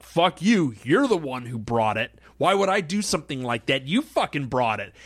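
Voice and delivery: mildly heated mock accusation; a touch of retold anger; nasty argument. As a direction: act out firing blame back. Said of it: "it got, like, very nasty".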